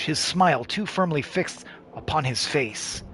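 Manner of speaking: game narrator reading a description; measured descriptive narration; story narration. A narrator's reading. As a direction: read it out like a storyteller setting a scene. Reads game's character description.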